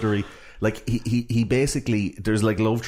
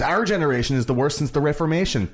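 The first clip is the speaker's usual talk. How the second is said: mock incredulous; 7 semitones higher than usual. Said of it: "incredulous and almost angry".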